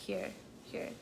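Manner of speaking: হিয়ার said clearly like "here"; হিয়ার with a long ee sound; pronouncing hear. Shown as a demonstration. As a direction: stretch হিয়ার as "heer". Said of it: "হিয়ার এর প্রনাউন্সিয়েশনটা কি হবে?".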